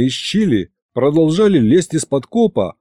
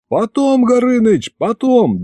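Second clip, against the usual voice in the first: high, urgent dismissal; hurried brush-off; 10 semitones higher than usual. Acted. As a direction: cut your friend off impatiently. Hurriedly cuts off the chat.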